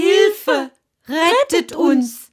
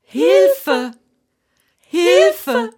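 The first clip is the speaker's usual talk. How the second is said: damsel in distress; 7 semitones higher than usual. Acted. Maidens cry for help at sea.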